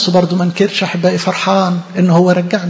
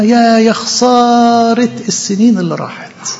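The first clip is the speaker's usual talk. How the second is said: slow, mournful wail over خسارة; grieving soul mourning lost years; drawn-out lament; 3 semitones higher, slower than usual. Acted. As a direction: stretch out يا خسارة like a sigh of regret. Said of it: "تقول لك: ببكي".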